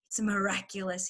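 whispered, struggling for air; breathless whisper. A narrator's reading. Fox fighting for breath after cider, whispering. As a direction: squeeze it out after a huge gulp. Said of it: "he whispered, fighting for breath".

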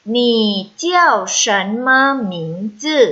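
measured syllables for learners to repeat; read-after-me model. Shown as a demonstration. Teacher leads students reading Chinese after her, measured model reading. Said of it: "อ่านตาม老师หนึ่งรอบนะคะ".

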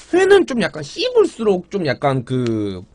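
words blurred by chewing; chewing while talking. Real, not acted. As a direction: mouth partly full of food. Seen 2: Mukbang streamer chews wrap while describing taste, mouth visibly working.

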